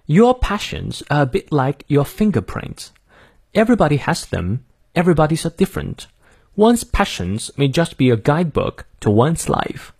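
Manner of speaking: careful British model reading; British accent. Shown as a demonstration. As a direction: read it through in British English for learners. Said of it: "从头到尾来念一遍哈".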